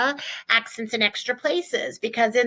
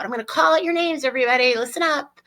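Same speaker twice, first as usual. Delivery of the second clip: calling out; 4 semitones higher, much faster than usual. Shown as a demonstration. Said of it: "to call out".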